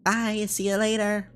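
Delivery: high, drawn-out cheery farewell; cheerful character. Acted. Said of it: "It must be nice to be so cheerful".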